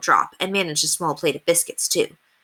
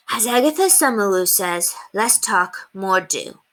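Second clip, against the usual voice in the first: mock-serious little boy; solemn, hiding a giggle; serious child voice. A narrator's reading. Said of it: "Alexander sounded completely serious".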